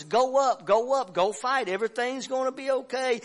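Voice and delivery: high, loud eager urging; false prophets hyping the king for war; excited urging. Retold or imitated. False prophets voiced urging battle.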